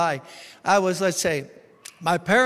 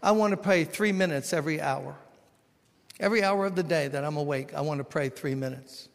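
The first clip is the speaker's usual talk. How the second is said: hushed prayer; 2 semitones lower than usual. Retold or imitated. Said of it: "spiritual giant who said".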